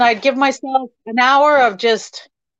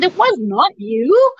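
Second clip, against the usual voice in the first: insistent denial; 4 semitones higher than usual. Retold or imitated. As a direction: refuse to believe it, insisting. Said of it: "I said".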